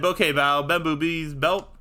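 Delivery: "Bamboo Bee's belt" drawn out slowly, word by word; slow, deliberate repeat of "Okay, Val, Bamboo Bee's belt"; slowed-down retelling. Retold or imitated. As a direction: spell out what you really said, slowly. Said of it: "I said".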